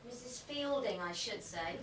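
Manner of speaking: soft, distant announcement; calling from off. Acted. Assistant tells Nesta Miss Whittaker is here, distantly calling. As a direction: announce the visitor from another room, dropping away. Calls up to Nesta about visitor.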